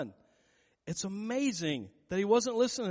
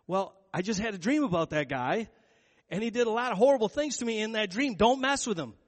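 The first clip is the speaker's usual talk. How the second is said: urgent wife; 4 semitones higher, 5 dB louder than usual. Retold or imitated. Pilate's wife warns him urgently.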